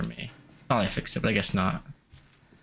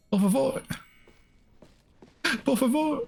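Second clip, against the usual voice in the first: mock pleading. Begging the game for ammo.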